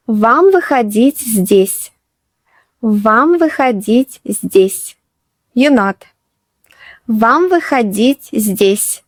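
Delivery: slow, careful model of Вам выходить здесь; slow teacher repeat. Shown as a demonstration. Teacher models the woman's line for beginners, slowly. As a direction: say it slowly so beginners can follow. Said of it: "teacher repeats phrase for learners".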